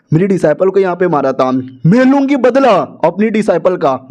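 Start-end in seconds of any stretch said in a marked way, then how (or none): 1.9-4.1 higher, mock-dramatic vow of revenge; vengeful vow. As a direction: swear revenge, pitch lifted on the first words. Elder acted vowing revenge.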